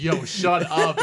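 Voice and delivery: laughing while telling him to hush; half-laughing scold; laughing shush. Retold or imitated. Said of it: "I'm like".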